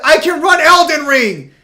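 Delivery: high, loud outraged disbelief; incredulous rant. Real, not acted. Told to lower graphics.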